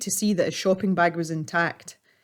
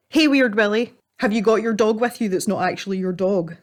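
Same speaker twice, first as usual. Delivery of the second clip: put-on taunting boy; 3 semitones higher than usual. Boy taunts old man.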